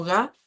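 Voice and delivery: "ga" as a lone open syllable, rising; Spanish syllable reading. Shown as a demonstration. Teacher shows Spanish syllable splitting, "ga" set apart. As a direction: sound out "ga" the Spanish way, pitch lifting. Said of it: "El español nos dice".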